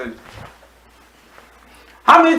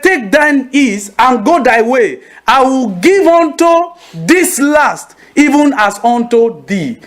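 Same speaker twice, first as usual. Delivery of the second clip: solemn Jesus voice; 4 semitones higher, slower than usual. Acted. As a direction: proclaim it slowly like scripture spoken aloud. Pastor voices Jesus, archaic quote.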